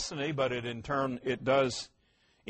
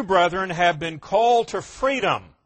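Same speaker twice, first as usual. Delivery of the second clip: louder, ringing scripture reading; 4 dB louder than usual. Shown as a demonstration. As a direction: proclaim "called to freedom" out to the room. Reads verse, then echoes it.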